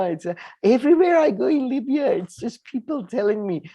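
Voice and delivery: a lightly voiced delighted Libyan, sarcastic; mock cheerful Libyan. Mocking her claim that Libyans are grateful, in gushing mock praise.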